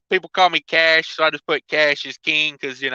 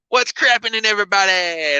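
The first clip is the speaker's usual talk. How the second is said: B O C impression; 3 semitones higher than usual. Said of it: "That's my B O C impression".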